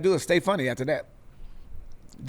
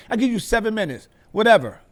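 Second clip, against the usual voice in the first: imitating the host; 5 semitones higher than usual. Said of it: "This is how he talking to me".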